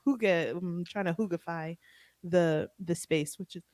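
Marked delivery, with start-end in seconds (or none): 2.2-3.6 choking on saliva mid-sentence. Real, not acted. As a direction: talk while half choking. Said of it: "sorry, I'm choking on my throat".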